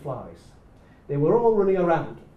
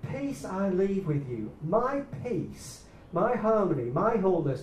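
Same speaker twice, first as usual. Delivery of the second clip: slow, weighty reading of the verse; reverent scripture reading; 3 semitones higher than usual. Shown as a demonstration. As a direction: read it with building emphasis. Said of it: "the way it should be read".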